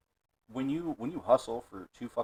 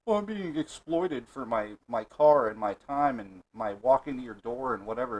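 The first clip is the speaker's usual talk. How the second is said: mock pissy whining. Imagining her as a delivery driver complaining, mock pissy. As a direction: imitate someone griping about being exploited. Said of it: "get all pissy, like".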